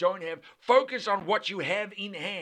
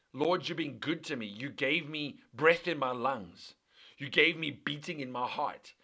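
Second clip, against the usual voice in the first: soft, lower, heartfelt thanks; humble gratitude; 4 semitones lower, 4 dB quieter than usual. Acted. Grateful believer thanking the Lord, humbly. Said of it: "an attitude of gratitude which says".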